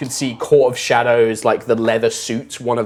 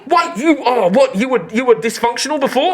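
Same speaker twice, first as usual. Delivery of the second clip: high, quick surprised merchant voice; surprised shopkeeper; 11 semitones higher than usual. Acted. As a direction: ask in excited surprise.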